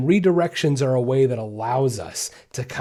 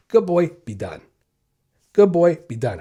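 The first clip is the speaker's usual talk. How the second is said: short and done; 3 semitones higher than usual. Shown as a demonstration. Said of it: "If I make a correction, I'm done".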